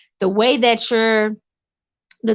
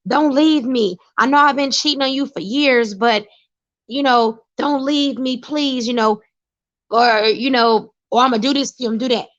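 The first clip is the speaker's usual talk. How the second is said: higher pleading mock voice of a cheating man; begging abuser; 4 semitones higher than usual. Mocking an abusive man who begs his partner not to leave, higher pleading whine. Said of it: "They just begging pimps".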